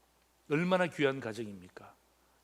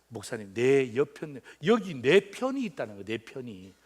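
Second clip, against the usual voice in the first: gentle introduction; 4 semitones lower than usual. Retold or imitated. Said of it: "그게 아니라".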